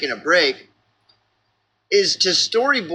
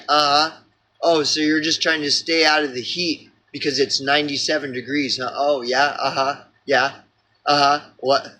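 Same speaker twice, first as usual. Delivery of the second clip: sarcastic; 3 semitones lower than usual. Retold or imitated. Mocking friend's heat talk.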